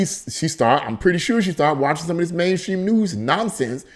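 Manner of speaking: ordinary talk, nothing marked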